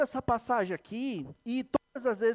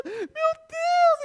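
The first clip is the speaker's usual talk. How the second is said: mother crying out; 7 dB louder than usual. Retold or imitated. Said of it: "E começou a chorar na frente da câmera".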